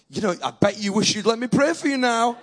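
teasing singsong jab; singsong tease. Retold or imitated. Preacher teasing the woman who refused prayer, singsong. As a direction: rub it in playfully.

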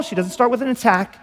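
ordinary talk

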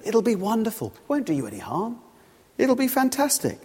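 light, lilting sales pitch; lightly acted devilish enticement; tempting devil. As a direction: coax with high swoops on the promises. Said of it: "the devil".

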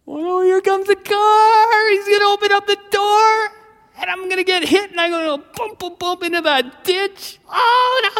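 put-on high, loud panicked kid squeal; hammed-up terror, wailing as danger nears; scared spitless. Boy on bike sees a car coming, panicked wail. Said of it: "I was suddenly scared spitless".

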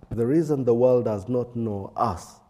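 echoing room sound; big hall echo. Real, not acted. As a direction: voice ringing in a large hall. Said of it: "sorry for the echoing".

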